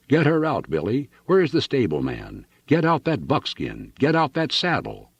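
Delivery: high-pitched urgent commands; trumpeting orders. A narrator's reading. Rancher yelling to Billy and stableman, trumpeting orders. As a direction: call orders across a stable yard. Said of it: "trumpeting orders".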